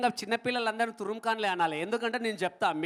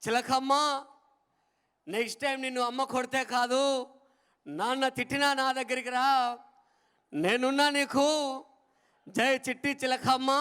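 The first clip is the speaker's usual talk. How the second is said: sing-song rhyme; 2 semitones higher than usual. Shown as a demonstration. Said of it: "ఈ విధంగా తీసుకొచ్చండి".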